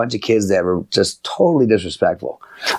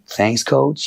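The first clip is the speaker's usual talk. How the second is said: raised pitch, rising end on coach; disrespectful thanks; 5 semitones higher than usual. Shown as a demonstration. Coach showing kids what he deems disrespectful, insolently. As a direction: say thanks with eye-rolling insolence. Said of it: "what I deem disrespectful".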